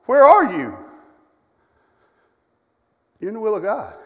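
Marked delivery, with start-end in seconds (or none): 0.1-0.8 fast, rising plea to God that bursts out louder on where are you; a believer pleading with the Lord in a storm; imagined desperate prayer. Retold or imitated. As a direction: rush the complaint, then cry it out. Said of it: "your first question is gonna be".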